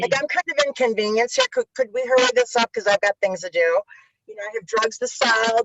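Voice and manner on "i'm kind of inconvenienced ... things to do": higher, bored, impatient mock demand; imitating her breezy self brushing off the court; entitled attitude. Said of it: "that's my attitude when I got in the court".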